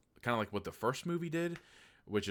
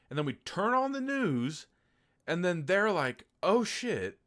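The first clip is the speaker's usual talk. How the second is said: excited retelling; 9 semitones higher, 7 dB louder than usual. Retold or imitated. News anchors panicking.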